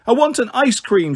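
put-on high, whiny child's wail; a little girl wailing for ice cream. Toddler wails to her sister for ice cream, lightly voiced. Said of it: "she wailed".

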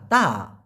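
slow, pulled "তা" falling away; drawn-out তা. Shown as a demonstration. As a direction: stretch "তা" long with a pitch swoop. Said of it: "এরকম একটা টান হবে".

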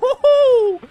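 very high, loud joyful yell; triumphant whoop. Real, not acted. Streamer whooping as his offensive breaks through, triumphant. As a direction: whoop like you just won. Victory moment.

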